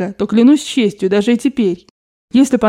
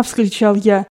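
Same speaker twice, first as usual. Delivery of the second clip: plain reading voice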